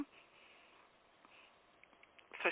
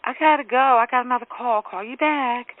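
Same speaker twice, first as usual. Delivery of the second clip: lightly sweetened polite excuse; sweet brush-off; 3 semitones higher than usual. Retold or imitated. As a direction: make a sweet, breezy exit from the call. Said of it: "I was very sweet".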